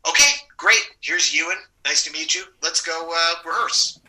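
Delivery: lightly acted enthusiasm; brisk cheery welcome. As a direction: welcome them in and move things along. Acts out the welcoming production crew.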